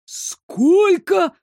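высоко и громко, в изумлении; ахнуть от цены; изумлённо. A narrator's reading. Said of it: "округлил глаза мастер". (мастер изумлён ценой насоса)

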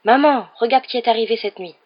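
excited cry. Acted. Fred coaching Ron on calling Mum, excited cry. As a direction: call out the big news to Mum. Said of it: "tu te précipites dans la cuisine en criant".

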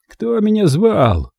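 high, drawn-out question; grand, slow enquiry from the landing; questioning uncle. A narrator's reading. Uncle appears above, asks who called.

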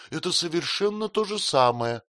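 high, crying retort. A narrator's reading. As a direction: fling it back in tears. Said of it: "крикнула Дора". (вскрик сквозь слёзы, выше)

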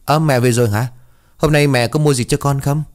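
put-on a cheeky kid chirping at his mom; young boy voice. Boy Tí greets mom coming home, eager child voice.

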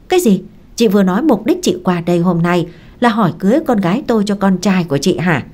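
father stunned by the marriage proposal, shocked; shocked outburst. Acted. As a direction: blurt it out in shock.

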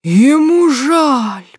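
very slow, loud, high mocking roar. A narrator's reading. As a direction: roar the words back at him. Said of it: "взревел Сергей Петрович". (медленный громкий рёв)

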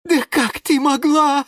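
high, outraged gasp; breathless indignation. Acted. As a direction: choke on your indignation. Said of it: "задохнулся от возмущения Лимон Филимон".

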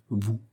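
a pointed "vous", set apart on its own; "vous" placed as a meaningful accent after a short break; stress on vous. A narrator's reading. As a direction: let "vous" stand alone, weighted with meaning. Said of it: "il accentua ce vous de manière à éclairer".

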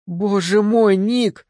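high, gasping delight; surprised exclamation. A narrator's reading. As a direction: cry out in happy surprise. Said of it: "воскликнула она".

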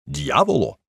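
a hint of an Italian oath; exclaiming count. Count reacting to the scandal, mild Italian exclamation. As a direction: toss it off like an outraged Italian count. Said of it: "вигукнув граф Козерогіо".

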